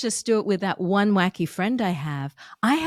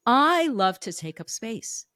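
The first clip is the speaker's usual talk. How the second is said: "I" drawn out and raised; stress on I. Shown as a demonstration. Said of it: "the emphasis on words".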